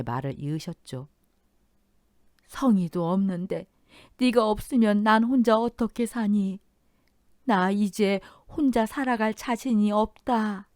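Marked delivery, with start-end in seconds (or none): 2.5-10.7 slow, higher, near-tearful plea; on the verge of tears. Acted. Mother-in-law pleading not to be left alone, near tears. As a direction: hold back tears as you plead. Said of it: "금방이라도 울음이 터질 듯한".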